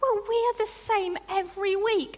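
ordinary talk

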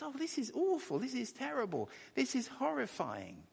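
high lament that settles down; woeful horror. Acted. Preacher voicing God's lament over injustice, high horrified. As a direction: voice the prophet's cry of woe. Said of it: "the idea of this word woe".

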